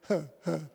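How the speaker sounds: low, soft, huffed mock laugh; short puffs of pretend chuckling; imitated laugh. Optician laughing at his age, mock chuckle. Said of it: "She starts laughing at me".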